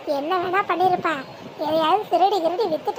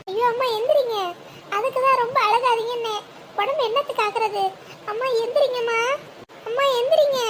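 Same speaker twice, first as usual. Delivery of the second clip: higher-pitched worried calls; anxious pleading; 4 semitones higher than usual. Acted. Woman urging a fainted mother to get up, anxious. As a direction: plead with her to wake up.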